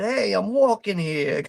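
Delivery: lightly put-on New York accent; a hint of a New York street accent. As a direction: toss out a mock New Yorker line. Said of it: "accent going on".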